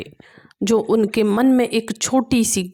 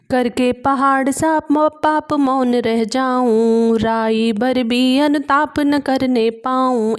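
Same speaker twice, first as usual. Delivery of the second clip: measured recital of classical verse; poem recitation; 3 semitones higher, slower than usual. A narrator's reading. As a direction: declaim each verse line with gravity. Recites verse between explanations. (गंभीर काव्य पाठ)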